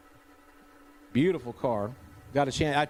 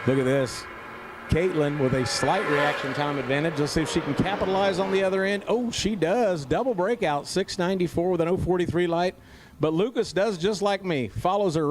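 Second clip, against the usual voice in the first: live race call; 2 semitones higher than usual. Real, not acted.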